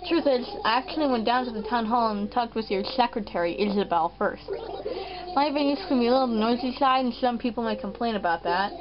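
slightly lisped cartoon sloth voice; a lightly put-on lisp, first attempt; Doctor Shrunk voice. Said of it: "this voice. This voice".

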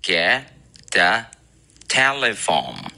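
get, a, telephone split word by word; super slow demo. Shown as a demonstration. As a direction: read it super slowly. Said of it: "如果读的超级慢速".

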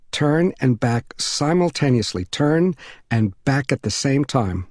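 slow, measured instruction, lightly voiced; patient neighbor mother. Mother instructing a trapped boy, slow and patient. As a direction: spell it out slowly as a helpful mother.

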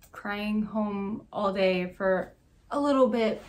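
"a little bit" stressed and slowed; slow, weighted "little bit". Real, not acted. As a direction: dwell on "little bit" to limit it. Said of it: "Emphasis on the little bit".

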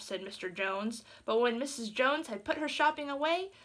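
steady storybook reading voice; gentle read-aloud narration; story narration. A narrator's reading. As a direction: read it like a bedtime tale.

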